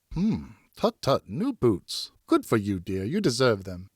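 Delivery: slow tut-tut, lightly voiced sly wife; mock innocence, gently teasing. Wife teases over new boots.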